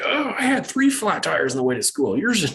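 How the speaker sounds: high-pitched mock bragging; hammed-up topping of someone's story; one-upper. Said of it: "a one upper".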